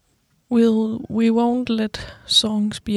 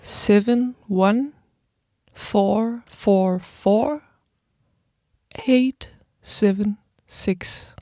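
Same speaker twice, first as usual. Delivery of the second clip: slow, digit by digit; reading digits; much slower than usual. Shown as a demonstration. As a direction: spell out each digit slowly. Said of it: "this time I'll say it, like, digit by digit".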